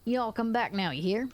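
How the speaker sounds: folksy country bumpkin send-off; country bumpkin accent. Pretend. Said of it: "except for massively country bumpkin".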